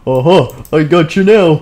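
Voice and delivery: play-acted triumph; triumphant. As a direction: crow as if cornering a villain. Guard corners the intruder, acted.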